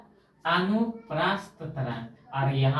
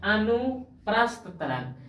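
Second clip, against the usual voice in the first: अनुप्रस्थ तरंग slow and higher in pitch; slow teaching demo of अनुप्रस्थ तरंग; easy, unhurried; 4 semitones higher, slower than usual. Shown as a demonstration. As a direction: sound out अनुप्रस्थ तरंग without hurry. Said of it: "एकदम आराम से बोला रहा है".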